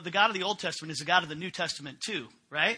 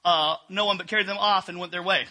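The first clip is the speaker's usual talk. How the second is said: steady, louder reading of the passage; scripture reading; 4 dB louder than usual. Acted. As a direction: read the Bible text to the congregation. Reads the Bible passage aloud.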